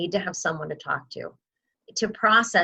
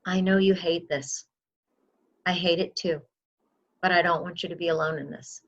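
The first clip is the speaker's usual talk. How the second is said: soft reassuring. Shown as a demonstration. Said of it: "that's when you can say".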